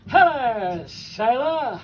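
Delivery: mock cry, drawn out; called-out greeting. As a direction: call it out like a cheeky lad.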